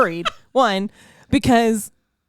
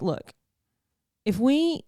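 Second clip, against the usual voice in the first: put-on Boston accent; 3 semitones higher, slower than usual. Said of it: "in his Boston accent".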